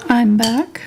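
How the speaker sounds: proud cat announcing herself, swooping up at the end; lightly voiced cat, pleased with itself. Painter voices the cat announcing her return, proudly. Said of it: "so proudly".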